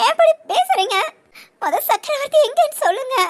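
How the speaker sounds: high, urgent, upset protest; distraught demand. Acted. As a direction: cut in, desperate to know where he is. Distraught demand to know his whereabouts. (பதறிப்போய் கேட்பது)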